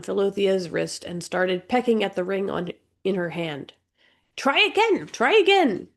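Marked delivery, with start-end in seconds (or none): 4.4-5.9 high parrot-like squawk; a bird squawking orders, much higher. Acted. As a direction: peck out each word like a bird. Bird pecks and demands.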